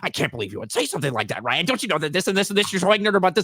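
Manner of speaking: outraged, huffy voice, high and rising pitch. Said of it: "comments from retarded people being like".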